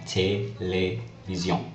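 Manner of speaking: télévision slowly, each é as "ay"; acute-accent "ay". Shown as a demonstration. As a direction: break télévision into té, lé, vision. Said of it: "changes the E sound to A".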